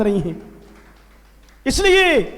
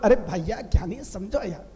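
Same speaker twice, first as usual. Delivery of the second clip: soothing plea; 7 semitones lower, 8 dB quieter than usual. Retold or imitated. Listeners soothing the angry monk.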